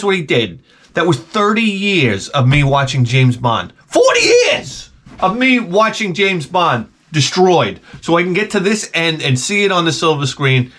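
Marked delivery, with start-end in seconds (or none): 3.9-7.8 drawn-out, high outburst; outraged rant. Acted. Ranting at the coworker who spoiled James Bond, outraged. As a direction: shout the number, then hammer out each word slowly.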